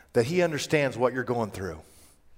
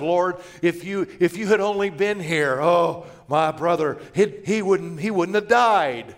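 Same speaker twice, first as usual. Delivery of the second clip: mildly accusational; 2 semitones higher than usual. Acted. Martha to the Lord after her brother died, mildly accusing. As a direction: plead with a hint of blame. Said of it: "a little accusational tone in there".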